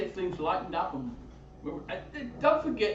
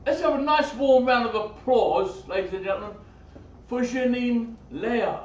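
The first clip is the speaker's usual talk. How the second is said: announcer intro; 3 semitones higher, 6 dB louder than usual. Real, not acted. Host introducing singer.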